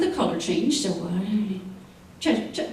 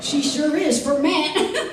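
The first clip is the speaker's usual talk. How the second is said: chuckling; 3 semitones higher, slower than usual. Acted. Doc amused at Chester's remark.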